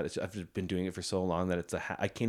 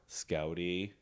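whispering; 2 semitones lower, 7 dB quieter than usual. Real, not acted. Whispering to the dog.

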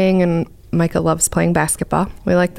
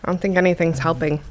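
soft, pained by the spice; mouth burning from spicy food; 4 dB quieter than usual. Real, not acted. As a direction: speak through a burning tongue. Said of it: "It hurts more when you breathe".

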